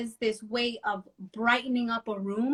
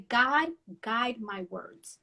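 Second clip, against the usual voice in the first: prayerful; much slower than usual. Retold or imitated. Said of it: "And I say".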